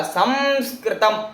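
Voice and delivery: संस्कृतम drawn out slowly, nasal स clear; slow demo word. Shown as a demonstration. Teacher to students, drawing out संस्कृतम slowly. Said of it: "स पर बिंदु लगा हुआ है".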